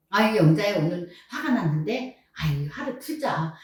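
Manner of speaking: softening, mildly coaxing self-talk; self-soothing. Pretend. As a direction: talk yourself down gently, demonstrating. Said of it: "나를 탁 달래고".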